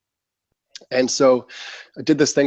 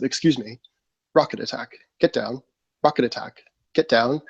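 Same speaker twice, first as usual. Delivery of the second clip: calm British announcer voice; lightly imitated British PA announcement; British accent. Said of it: "this beautiful British voice".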